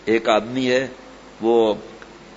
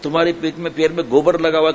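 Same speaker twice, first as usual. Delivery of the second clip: talking brake; 4 semitones higher, 3 dB louder than usual. Acted. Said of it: "تو بریک نے کہا".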